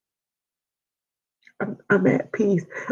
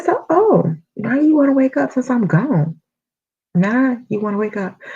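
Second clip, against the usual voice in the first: high startled teasing call; surprised to mom; 5 semitones higher, 3 dB louder than usual. Retold or imitated. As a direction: tease mom waking up, voice jumping high. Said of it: "I said".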